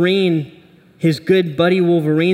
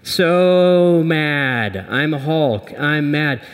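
mock Hulk; much slower than usual. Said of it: "He's frustrated with his job".

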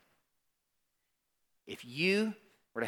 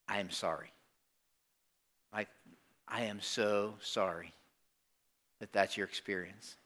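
sincere apology; 3 semitones lower, 5 dB quieter than usual. Real, not acted. Preacher to listeners who were yelled at, sincerely sorry.

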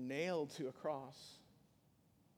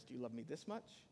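storybook voices; 2 semitones lower, 5 dB quieter than usual. Acted. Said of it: "Little Nut Brown Hair goes".

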